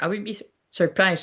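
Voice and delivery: talking through hiccups; hiccuping mid-sentence. Real, not acted. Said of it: "sorry, I can't stop hiccuping".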